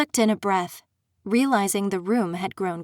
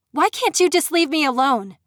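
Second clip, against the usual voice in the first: high, loud, desperate outburst; cornered and lashing out at her tormentor; angry snap; 6 semitones higher, 4 dB louder than usual. Acted. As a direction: snap it, near tears with fury. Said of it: "I snapped".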